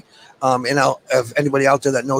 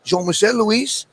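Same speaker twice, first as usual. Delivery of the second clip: grand introduction; 5 semitones higher than usual. Acted. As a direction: announce him like a star guest. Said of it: "I love the way he says that".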